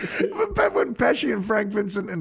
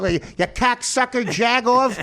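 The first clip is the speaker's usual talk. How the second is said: put-on Chicago mob accent; 4 semitones higher, slower than usual. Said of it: "That's how they talk".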